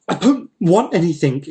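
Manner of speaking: high, indignant yell. Acted. Uncle Dima from inside the jar, yelling. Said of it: "yelled Uncle Dima".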